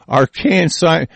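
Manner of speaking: slow scornful echo with a laugh; mocking repeat. Real, not acted. Ranter scoffing at scientific jargon, mocking it with a laugh. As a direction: sneer at the fancy word. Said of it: "is that what that is?".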